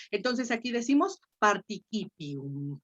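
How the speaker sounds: participium with a hard k sound in the middle; classical Latin pronunciation. Shown as a demonstration. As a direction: say participium as par-ti-KI-pi-um. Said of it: "Sí tendría que leerse participium".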